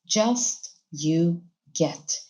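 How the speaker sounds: just stressed, whole phrase slow and deliberate; slow, teacherly emphasis on just. Shown as a demonstration. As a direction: spell out just you get slowly for the class. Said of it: "it is without S".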